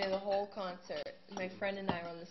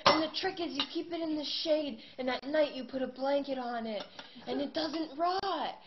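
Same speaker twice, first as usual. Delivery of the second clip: much higher, louder, earnest oddball voice; eccentric fan; 9 semitones higher, 7 dB louder than usual. Retold or imitated. Pumpkin man explains keeping his pumpkin fresh, high and earnest. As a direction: explain your pumpkin secret like it matters deeply.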